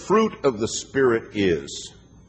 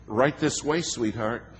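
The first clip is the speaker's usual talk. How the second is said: mock sugary sweetness; 3 semitones higher than usual. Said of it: "It's time for the act".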